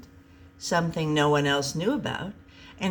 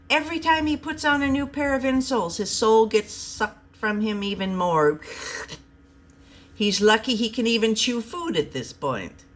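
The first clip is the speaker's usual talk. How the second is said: Robin's voice; 5 semitones higher than usual. Acted. Robin explains to Byron.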